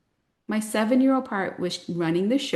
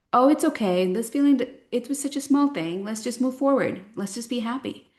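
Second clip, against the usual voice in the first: much higher, sing-song cheerful parent; chirpy parent brush-off; 5 semitones higher than usual. Retold or imitated. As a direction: gloss over the feeling brightly. Parent voice soothing the child.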